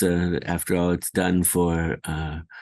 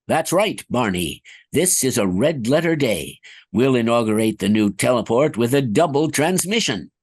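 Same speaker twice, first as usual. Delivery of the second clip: cheerful scientist; 3 semitones higher than usual. Acted. Scientist game lines.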